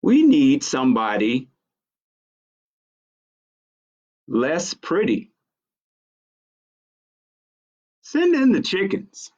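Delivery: lightly voiced sheep, rising high on the chickens; a sheep with a fine idea; sheep deciding. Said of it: "said the sheep".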